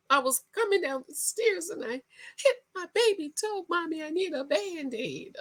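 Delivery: put-on high whiny baby voice; whiny man-child. Imitating Lil Michael whining to mommy, high whiny voice. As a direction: whimper it like a big baby. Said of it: "whines about every little thing".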